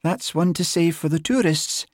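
high, lilting amused voice; amused, laughing. A narrator's reading. Constable teasing sergeant back, amused. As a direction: tease him back merrily. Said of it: "she laughed".

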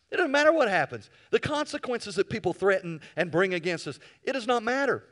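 high, loud preacher's cry; fiery preaching. Real, not acted. Preacher crying out to congregation, loud and high. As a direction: lift the room, full force.

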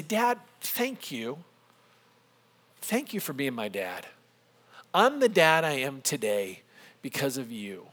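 soft, halting heartfelt thanks; a little emotional. Retold or imitated. Son thanking his dad on the phone, a little emotional. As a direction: let it fall quietly, with pauses between phrases. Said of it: "I'm getting a little emotional".

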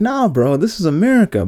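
a local correcting the lost sailors; mocking locals. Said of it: "the locals like".

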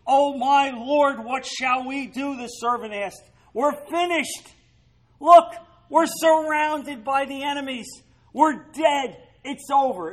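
high, loud, slow cry of fear; panicked servant. Acted. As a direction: wail it like a doomed man. Terrified servant sees army.

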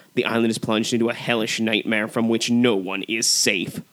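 dramatic trailer narration; movie trailer voice. Acted. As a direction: read it like a horror movie trailer. Reads a movie trailer intro.

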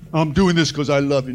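lightly voiced tender father; a hint of a loving father. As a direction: say it gently as a father would.

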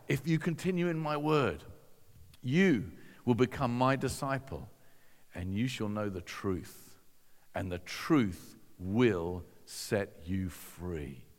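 measured recital with long pauses, sinking low; slow right down on the final promise; grave, deliberate scripture quote, falling at the end; solemn quotation. Retold or imitated. Quotes Jesus' words solemnly, first take.

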